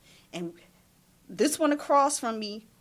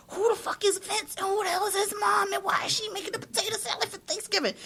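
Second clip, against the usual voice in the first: outraged rant; 11 semitones higher than usual. Retold or imitated. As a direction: tear into him, half laughing. Ranting at friend the chef.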